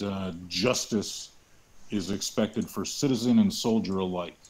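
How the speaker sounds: parade drill voice. Acted. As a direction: address the troops firmly. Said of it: "in as much of a parade drill voice as I can".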